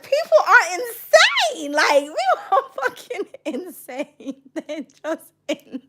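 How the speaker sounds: slow, high words through laughter; laughing. Real, not acted. Streamer reading comments, slow through helpless laughter. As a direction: barely get it out between laughs. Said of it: "Do you know I'm laughing?".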